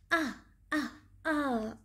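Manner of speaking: short, pretend "ah" of hurt; three little play-acted ouches; mock cries of pain. Teacher as the monkey with a bumped knee, mock pained cries.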